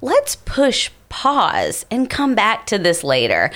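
put-on slow, gentle boyfriend voice; the boyfriend calmly defuses it. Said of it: "He's like".

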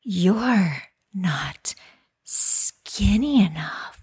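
slow, breathy whispered seduction; hammed-up sexy, drawn out and whispery. Shown as a demonstration. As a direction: purr it slowly in a sultry whisper. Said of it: "in the most sexy voice possible".

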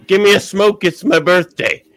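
high, loud imitation of a brash stranger; stranger's demand. Retelling a stranger's demand on his trip, high mock shout. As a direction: belt it out like a pushy stranger. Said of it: "she flashed me and goes".

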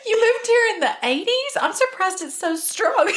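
high-pitched mock amazement, breaking into laughter; very American friend. American friend quizzing German driver about her accent, mock amazement. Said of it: "the most American thing you could say".

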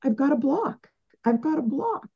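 mock your old stuck self, pleading and helpless; whiny stuck self. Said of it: "it was like".

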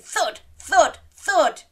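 loud, high thudding door knocks; play-along thud. Pretend. Storyteller leading children in door banging, loud pretend thuds. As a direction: boom out each pretend knock.

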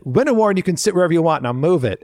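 quick, cocky retort, snapping at the end; cheeky comeback. Retold or imitated. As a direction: fire back a smug zinger fast. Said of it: "I said".

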